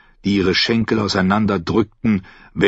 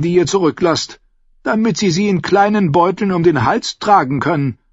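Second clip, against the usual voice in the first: put-on old sailor warning; 9 semitones higher than usual. Old captain warns the knight, mocking and grim. Salador Saan warns Davos off.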